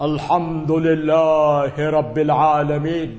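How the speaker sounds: imitating an Iranian reciting อัลฮัมดุลิลลาฮิร็อบบิลอาลามีน; mock Iranian-accented Quran reading; lightly teasing Iranian accent; Iranian recitation accent. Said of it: "พวกอิหร่านมันต้องอ่านอย่างนี้นะ เสียงมัน".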